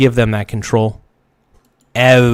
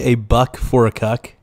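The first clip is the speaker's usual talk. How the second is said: disbelieving repeat. Real, not acted. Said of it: "Did I hear that right?".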